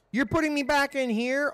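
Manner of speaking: can't believe they're sending him back; indignant disbelief. Real, not acted. Player stuck again, shouting in surprise at game. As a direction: pitch jumps high in outraged surprise.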